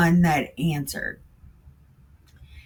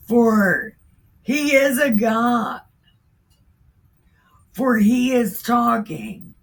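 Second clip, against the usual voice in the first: mocking taunt; 5 semitones higher than usual. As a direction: jeer at them like a heckler. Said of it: "he mocked them aloud".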